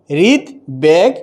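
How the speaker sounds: হৃদবেগ slowly as "rid... beg"; separate b. Shown as a demonstration. Teacher illustrating that b stays separate, slow syllable demo. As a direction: pause after "rid" in হৃদবেগ, then clear "beg". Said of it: "ওই বয়ের উচ্চারণ স্বতন্ত্র থাকবে".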